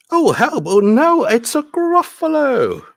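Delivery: high-pitched, loud storybook panic; alarmed cry. Acted. Mouse meeting the Gruffalo in a story, alarmed cry. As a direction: cry out in mock terror, stretching the last word.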